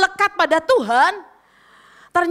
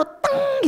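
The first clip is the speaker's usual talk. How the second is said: imitated ding; 11 semitones higher than usual. Imitates a sudden spark of insight.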